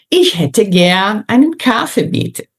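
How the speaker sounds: "Ich hätte gern einen Kaffee, bitte" said lightly and connected; lighter pronunciation. Shown as a demonstration. Teacher returning to the initial phrase, light delivery. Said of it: "Você percebe como fica mais leve?".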